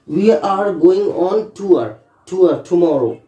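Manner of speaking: very slow, each word deliberate; slow example sentence. Shown as a demonstration. Teacher giving an example sentence, very slowly. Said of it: "इसको बोलते हैं tour".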